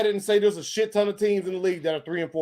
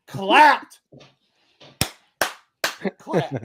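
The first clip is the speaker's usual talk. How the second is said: whisper; 4 dB louder than usual. Real, not acted. Whispered repeat.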